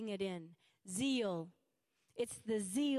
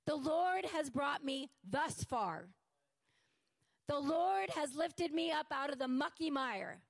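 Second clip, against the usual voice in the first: fervent praise; 3 semitones higher than usual. Retold or imitated. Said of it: "When we should be going".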